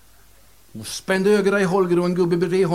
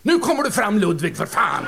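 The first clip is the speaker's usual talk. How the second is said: impatient call; 4 semitones higher than usual. Acted. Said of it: "sa jag".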